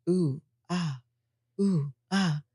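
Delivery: soft drawn-out ooh and ah; tantric sound demo. Retold or imitated. Teacher showing a partygoer the tantra sounds, soft. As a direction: softly voice the breathing sounds. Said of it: "What kind of sound?" And I'd say".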